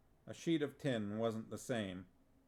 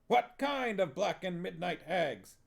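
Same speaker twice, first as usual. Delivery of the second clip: drill sergeant question; 7 semitones higher, 4 dB louder than usual. Acted. Director drilling witches.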